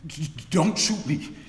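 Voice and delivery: stuttering in fear, begging; frightened stammer. Acted. Preacher at the cellar door, stammering in fear. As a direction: stammer out the plea as if a gun is on you. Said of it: "was afraid to go in".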